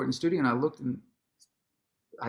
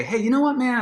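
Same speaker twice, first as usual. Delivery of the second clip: higher and louder, squaring up; confrontational challenge; 10 semitones higher, 5 dB louder than usual. Retold or imitated. About to confront Prince at the door, high and loud. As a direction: start a fight with the words. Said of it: "I'm about to, like, say".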